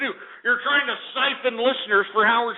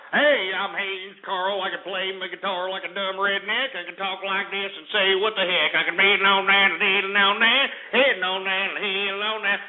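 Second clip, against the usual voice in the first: mocking Haynes Carl. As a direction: play him as a dim hick bragging. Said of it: "what is he like, Haynes Carl?".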